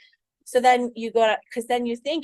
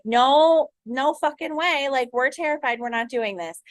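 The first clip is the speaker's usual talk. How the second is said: panicked subconscious; 4 semitones higher than usual. Retold or imitated. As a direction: play the scared subconscious slamming the door. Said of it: "subconscious is like".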